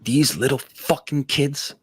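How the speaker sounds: mock outrage. Retelling losing to younger kids, mock outrage. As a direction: play up the wounded ego in disbelief. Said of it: "my ego got destroyed".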